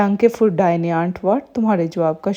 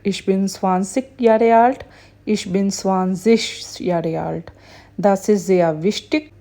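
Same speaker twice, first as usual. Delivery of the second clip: very slow, word-by-word German; slow teacher demo of German phrases; slow model reading; much slower than usual. Shown as a demonstration. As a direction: read it slowly for learners to copy. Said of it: "teacher reads German model sentences".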